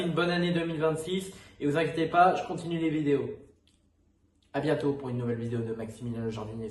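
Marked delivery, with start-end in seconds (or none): 4.5-6.7 channel outro refrain. Acted. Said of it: "Ça fait longtemps que j'ai pas sorti ce refrain".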